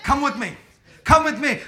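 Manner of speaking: the Holy Ghost gently calling from in front; gentle invitation. Retold or imitated. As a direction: invite them kindly to follow. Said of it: "the Holy Ghost ... says".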